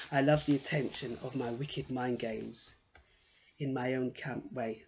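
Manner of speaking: quiet, deliberate verse reading; poem reading. Acted. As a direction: read your own poem aloud, understated. Reads her poem aloud.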